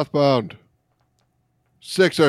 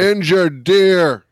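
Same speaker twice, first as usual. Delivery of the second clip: slow, high, loud dramatic read; dramatic announcer; 6 semitones higher, 6 dB louder, much slower than usual. Pretend. Host reading the call log out as big news. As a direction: intone it like a breaking news alert.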